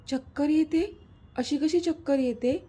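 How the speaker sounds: a mother's startled worry, lightly voiced; worried surprise. Mother hearing daughter is dizzy, worried surprise. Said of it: "सुमनताई काळजीने बोलल्या".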